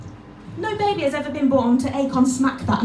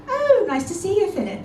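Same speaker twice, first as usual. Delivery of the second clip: polite greeting; 6 semitones higher than usual. Acted. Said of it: "I can go so fast from".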